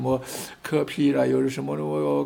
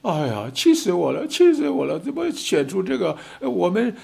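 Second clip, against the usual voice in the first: imitating furious voters; 4 semitones higher than usual. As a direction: play the fed-up voter yelling in frustration. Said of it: "老百姓都在哭". (模仿老百姓气愤地大喊)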